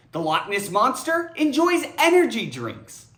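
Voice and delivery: giggling through the sentence; can barely keep a straight face; amused read, laughter breaking in; laughing. Shown as a demonstration. Read with laugh vs plain reread.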